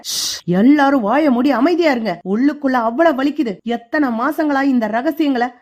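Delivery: hushing the family and pouring out his pain, lightly shouted; shouting. Acted. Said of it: "Saravanan கத்துறாரு". (லேசான வேதனையான கத்தல்)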